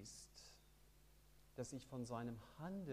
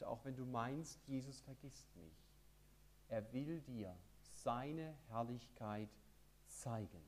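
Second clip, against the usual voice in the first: leise vorgelesen; 6 dB quieter than usual. Shown as a demonstration. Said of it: "mit der Überschrift".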